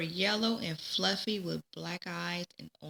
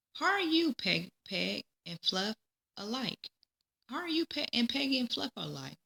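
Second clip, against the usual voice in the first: high, sing-song greeting to a duck; playful child voice; 5 semitones higher than usual. Acted. Peggy greeting Fluff in a high, playful sing-song. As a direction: coo at the duckling like a little girl.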